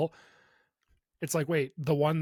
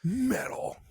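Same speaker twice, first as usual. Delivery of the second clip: silly high echo; 9 semitones higher than usual. Pretend. Echoing word in silly voice.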